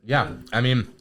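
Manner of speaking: chewing while talking; words through a bite of food; mouth full. Real, not acted. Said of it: "excuse me for chewing in the mic".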